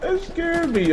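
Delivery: very high squeaky retelling; high excited repeat. Real, not acted. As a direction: say it again, still rattled. Repeating after huh.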